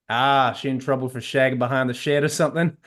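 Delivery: cheerfully crude American South voice; terrible Texan accent. Pretend. Dean needles the woman in the hallway, in a terrible Texan accent. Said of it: "in a heavy American South accent".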